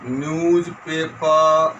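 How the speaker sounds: slow word-by-word dictation; measured classroom dictation. Shown as a demonstration. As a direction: dictate with long gaps, each word drawn out level. Dictates exercise sentence.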